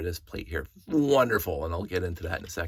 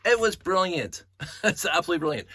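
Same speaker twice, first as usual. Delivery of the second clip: gushing; 9 semitones higher, 5 dB louder than usual. Real, not acted. To his viewers about Lego steering, real gushing delight.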